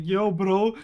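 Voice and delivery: hyped bro voice. Pretend. Mock excited bro call.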